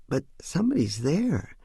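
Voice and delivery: put-on high little boy voice, mildly insistent; young son insisting.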